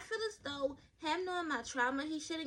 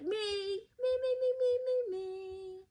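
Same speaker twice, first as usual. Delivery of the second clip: high, loud eager calling out; eager kid; 9 semitones higher, 4 dB louder, much slower than usual. Retold or imitated. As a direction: beg the teacher to pick you. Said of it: "I be sitting there like".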